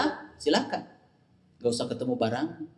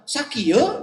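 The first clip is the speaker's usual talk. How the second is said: Sundanese mock reply; 9 semitones higher than usual. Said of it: "orang Sunda".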